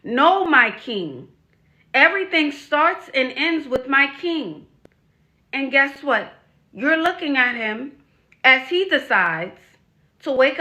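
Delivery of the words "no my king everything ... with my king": 1 mock submissive. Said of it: "I'm saying".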